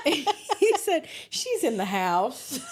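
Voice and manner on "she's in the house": slow Southern kid imitation; drawled Southern child's answer; Southern accent. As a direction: imitate a Southern boy, drawing out the last word. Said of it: "in his southern accent".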